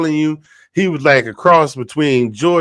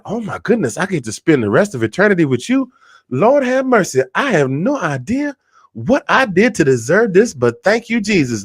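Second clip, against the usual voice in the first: a touch of a swooning woman; 4 semitones higher, 3 dB quieter than usual. Acted. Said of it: "she was like".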